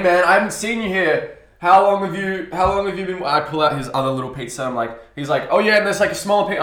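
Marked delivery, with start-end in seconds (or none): 0.0-3.2 friendly customer. Retold or imitated. Customer voiced in delivery story. 5.5-6.6 customer voice. Retold or imitated.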